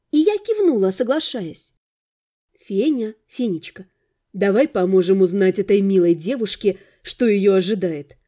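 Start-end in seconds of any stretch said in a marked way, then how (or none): 2.6-8.2 tender. Acted. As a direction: gently coax the cat, voice lowered. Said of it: "ласково обратилась к своей кошке".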